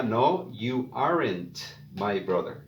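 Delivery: you aren't my brother spoken slowly, weight on aren't; carefully spelled out contraction; slow model. Shown as a demonstration. Teacher showing the other contraction to learners, slowly. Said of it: "la otra forma sería".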